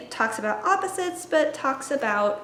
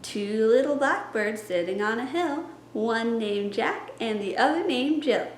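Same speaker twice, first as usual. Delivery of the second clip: fingerplay rhyme demo. Shown as a demonstration. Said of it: "it goes a little bit like this".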